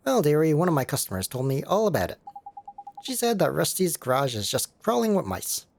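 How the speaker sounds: lightly voiced fussing older lady; a hint of a fond auntie; doting cat lady. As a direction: coo to the cat. Layla explains.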